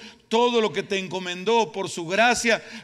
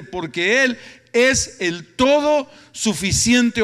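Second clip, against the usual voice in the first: forceful preaching; 2 semitones higher, 6 dB louder than usual. Real, not acted. Preacher telling congregation grace is sufficient, forceful and building. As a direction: drive each key word home loudly.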